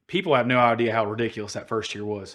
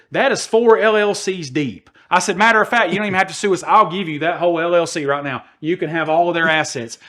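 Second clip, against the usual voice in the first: heated retort; 4 semitones higher, 4 dB louder than usual. Retold or imitated. Retold heated argument with producer.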